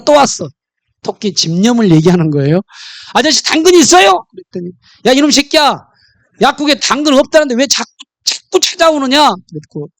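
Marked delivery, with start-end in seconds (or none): 3.1-4.2 higher, louder little rabbit asking sweetly; eager rabbit voice. Acted. Rabbit asks again. 5.1-9.3 mock scolding pharmacist. Annoyed pharmacist scolds rabbit.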